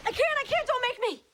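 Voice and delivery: high, loud cries from a nightmare; panicked pleading. Acted. Woman waking from the chair nightmare, panicked high pleading. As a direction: plead as if being forced.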